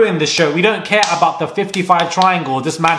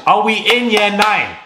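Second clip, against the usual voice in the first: higher-pitched indignant question at usual pace; 4 semitones higher than usual. Real, not acted. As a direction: ask it in raised, exasperated disbelief. First take of mocking question.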